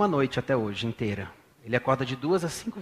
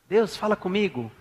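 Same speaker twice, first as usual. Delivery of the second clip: earnest prayer; 3 semitones higher than usual. Shown as a demonstration. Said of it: "fala assim".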